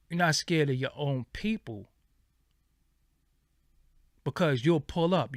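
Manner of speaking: ordinary delivery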